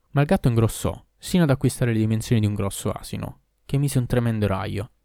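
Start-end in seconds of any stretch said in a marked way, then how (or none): none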